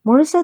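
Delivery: முழுசா leaned on with weight; stress on முழுசா. A narrator's reading. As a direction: put the emphasis on முழுசா as you ask. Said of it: "முழுசான்ற வார்த்தையில இருந்த அழுத்தம்". (முழுசா என்ற வார்த்தைக்கு அழுத்தம்)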